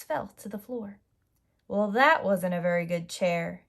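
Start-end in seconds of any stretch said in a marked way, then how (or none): 1.7-3.6 grumpy. Acted. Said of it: "she said grumpily".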